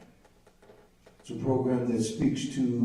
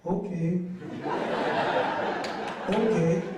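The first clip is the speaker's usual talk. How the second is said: sheepish okay; 3 semitones higher than usual. Retold or imitated. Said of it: "what came out of my mouth was".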